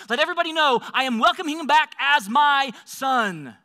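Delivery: jubilant orders. Acted. Father gives joyful orders to servant.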